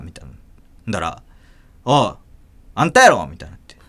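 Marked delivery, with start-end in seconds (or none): 1.8-3.3 accusing mother. Retold or imitated.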